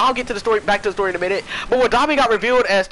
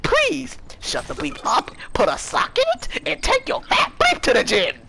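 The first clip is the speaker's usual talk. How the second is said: exasperated high scolding; mock angry rant; 5 semitones higher than usual. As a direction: lecture a crybaby, half yelling. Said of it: "I was like".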